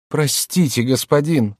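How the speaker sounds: woman humbly begging a fortune teller; pleading woman. A narrator's reading. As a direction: beg the old fortune teller politely.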